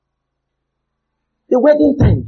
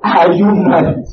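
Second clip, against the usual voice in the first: incredulous retort; 3 semitones lower, slower than usual. Retold or imitated. Preacher retorting to bridesmaid.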